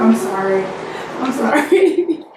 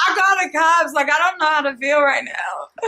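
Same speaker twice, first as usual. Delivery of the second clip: laughing through tears; 3 dB quieter than usual. Real, not acted. Shaken after prank reveal.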